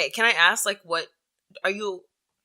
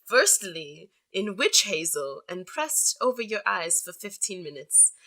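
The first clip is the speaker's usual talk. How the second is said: sexy voice. Pretend. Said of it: "I'll read this one in a sexy voice".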